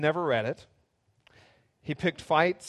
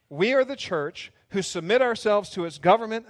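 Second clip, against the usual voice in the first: higher, louder, emphatic pace demo; 5 semitones higher, 5 dB louder than usual. Shown as a demonstration. Pastor showing congregation the reading pace, emphatic. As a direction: say it like you mean it. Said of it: "Let's go about this pace".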